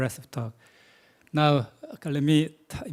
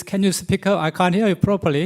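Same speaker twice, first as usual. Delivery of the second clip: raised voice, higher and louder; to someone hard of hearing; 5 semitones higher, 6 dB louder than usual. Real, not acted. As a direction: call out over a bad connection. Can't hear the questioner.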